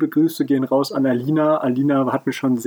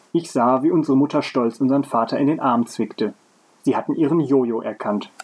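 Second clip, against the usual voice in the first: measured read-aloud storytelling; story narration. A narrator's reading. Podcaster reading a story to co-host, narrating. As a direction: read the tale out in careful phrases.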